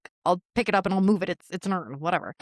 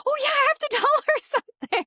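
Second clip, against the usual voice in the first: sudden remembering; 3 dB louder than usual. Retold or imitated. Suddenly remembering a forgotten text.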